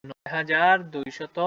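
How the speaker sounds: slow, word by word, for writing down; slow dictation. Shown as a demonstration. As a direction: say "নয় হাজার দুইশত" slowly so students can write it. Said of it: "লিখে ফেলি".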